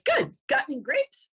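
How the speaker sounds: high, perky little duck voice; duck in a joke. Acted. Duck asking the bartender, high and innocent. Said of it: "And the duck says".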